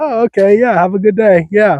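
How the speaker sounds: stilted, awkward, uncomfortable, high, small voice. Retelling how the boomer paused, then replied: imitating an awkward reply. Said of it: "kinda awkwardly was just like".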